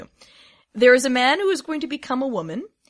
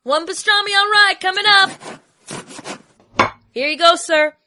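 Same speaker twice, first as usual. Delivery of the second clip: put-on high, bright counter-girl voice; chirpy deli server; sandwich lady voice; 9 semitones higher, 4 dB louder, slower than usual. Sandwich lady serving customer.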